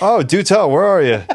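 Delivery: mock sweet. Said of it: "I was like".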